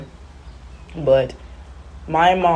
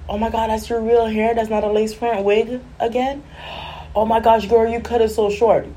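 higher-pitched imitation of shocked friends; mock astonishment; 6 semitones higher than usual. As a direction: act out people gasping over the haircut. Imitating people reacting to haircut.

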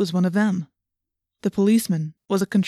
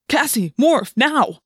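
higher, louder snapped order; urgent snap; 5 semitones higher, 5 dB louder, slower than usual. A narrator's reading. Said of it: "I snapped".

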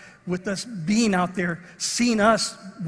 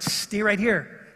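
firm instruction; much slower than usual. Retold or imitated. Telling son to stay put.

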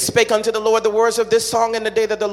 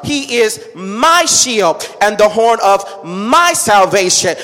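slow, solemn reading of the psalm; scripture reading; slower than usual. Acted. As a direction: read each line deliberately, like holy text. Reads Psalm aloud, slowed.

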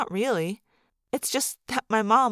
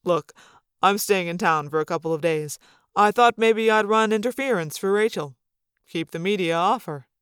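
hint of a lower, fatherly voice; lightly voiced dad; 3 semitones lower than usual. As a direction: lightly play a protective father offering help.

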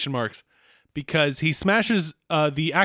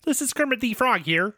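a touch higher Kermit, rising at the start; Kermit the Frog; 5 semitones higher than usual. Pretend. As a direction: try Kermit again, a little higher. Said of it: "Give me the Kermit the Frog line again".

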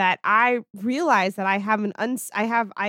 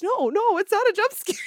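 laughing denial; 9 semitones higher than usual. Retold or imitated. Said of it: "He goes".

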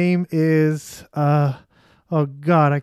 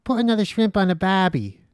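put-on Australian accent; 5 semitones higher than usual. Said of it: "a little Australian accent there".

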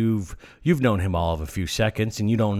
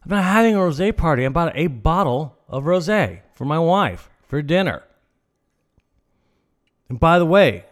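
mock-offended man defending his rosé; indignant retort; 3 semitones higher than usual. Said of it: "I said".

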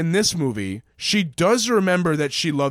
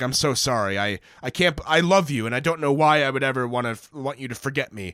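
lower, hushed, hammed-up sorry Superman; mock heartfelt apology; 6 semitones lower than usual. Superman apologizing to Lois for wiping her memory, mock remorse. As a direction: plead for forgiveness with fake sincerity. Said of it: "be like".

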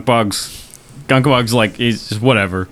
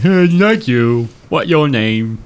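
simple-minded troll; 3 semitones higher, slower than usual. Acted. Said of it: "Gunkbog laughs and says".

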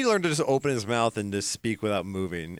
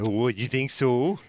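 lightly voiced Ronald Reagan; a hint of old Reagan drawl; Reagan impression; slower than usual. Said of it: "sometimes I just slip into that voice".

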